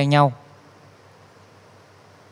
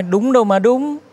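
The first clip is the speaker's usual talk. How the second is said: excited protest; 7 semitones higher than usual. Retold or imitated. Friend protests, high voice.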